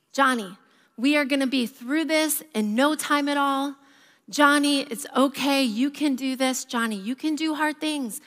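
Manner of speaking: a touch of soothing, imitating a patient dad; dad calmly reassuring his toddler in a busy grocery store; staying calm. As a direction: talk a toddler down, steady and even. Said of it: "the dad is just staying really calm".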